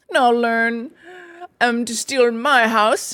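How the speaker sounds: bellowing. A narrator's reading. Toad threatening imaginary intruders, mild bellow. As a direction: bellow it half-heartedly, spoiling for a fight. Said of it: "bellowing imaginary animals".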